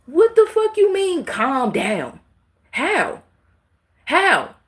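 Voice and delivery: high, loud outraged yell; furious outburst. Real, not acted. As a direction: explode at the idea of calming down. Outraged at being told calm.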